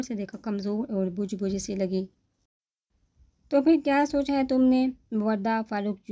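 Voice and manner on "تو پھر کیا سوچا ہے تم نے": loud, high, harsh question; angry demand. A narrator's reading. Husband confronting his wife about her decision, angry. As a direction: confront her with barely held rage.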